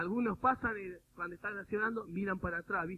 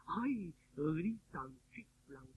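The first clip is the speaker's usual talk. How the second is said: mock horrified; much slower than usual. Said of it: "Alguna gente se horroriza".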